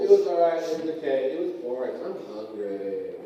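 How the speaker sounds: imitated bored kid, sinking step by step; bored kid response. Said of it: "same response".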